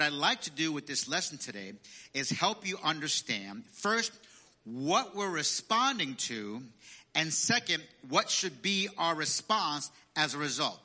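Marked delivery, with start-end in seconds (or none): 4.6-9.9 slow and spelled out for note-taking; slowly, as if dictating; slow, deliberate. Shown as a demonstration. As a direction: stretch each word so they can write it. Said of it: "I'm gonna repeat that".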